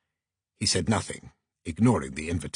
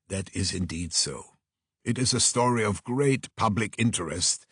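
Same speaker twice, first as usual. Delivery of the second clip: a hint of a measured, formal sleuth; mildly reserved, precise, weighing the case aloud; lightly voiced formal detective. Detective weighing the invitation with his assistant, lightly voiced, formal. Detective's considered reply in dialogue.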